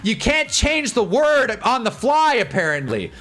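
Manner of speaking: imitated apologetic judge; judges' ruling. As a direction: draw it out like a patronising official. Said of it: "And they're like".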